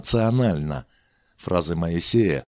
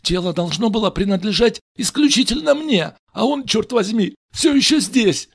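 high, loud, exasperated male character; agitated Richie; 13 semitones higher, 4 dB louder than usual. Acted. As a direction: complain it out, getting worked up.

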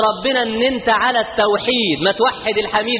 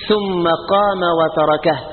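solemn quote; slower than usual. Acted. Preacher quotes the Prophet solemnly.

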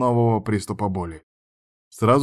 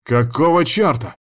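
startled outburst, a little louder; blurted out; 5 semitones higher, 4 dB louder than usual. A narrator's reading. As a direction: burst out in disbelief. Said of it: "вырвалось у меня". (невольный возглас)

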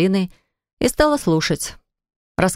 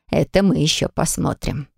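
thoughtful. Acted. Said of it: "сказала задумчивым голосом".

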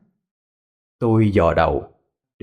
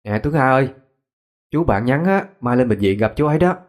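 shrill voice; 3 semitones higher than usual. Acted. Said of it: "giọng lanh lảnh".

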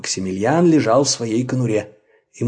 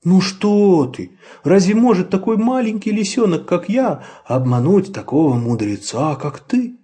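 modest; 7 semitones higher than usual. A narrator's reading. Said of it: "скромно ответил Людвиг".

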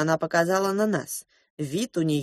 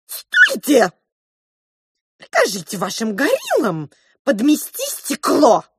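commanding; 7 semitones higher, 5 dB louder, slower than usual. A narrator's reading. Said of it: "приказала розовая мышь".

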